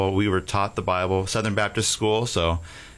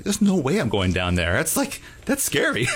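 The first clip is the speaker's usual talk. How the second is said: put-on much higher, laughing little-kid voice; scared little kid; 7 semitones higher than usual. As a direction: squeal it like a frightened child. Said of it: "as a little kid, it's like".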